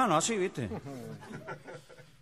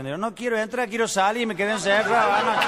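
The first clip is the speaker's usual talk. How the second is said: put-on drunk voice; 5 semitones higher, 4 dB louder than usual. Drunk's punchline reply.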